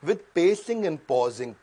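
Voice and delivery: deliberate, spaced-out "pacing and pausing"; pacing demo. Shown as a demonstration. Coach shows his audience pacing, deliberate and stretched. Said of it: "अभी तक मैं कर रहा था pacing, बहुत तेज चल रहा था".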